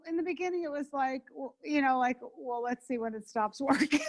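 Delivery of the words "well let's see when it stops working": chuckling through a skeptical quote; laughing. Retold or imitated. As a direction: let a laugh break the line.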